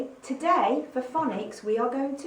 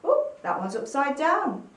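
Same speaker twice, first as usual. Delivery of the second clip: ordinary delivery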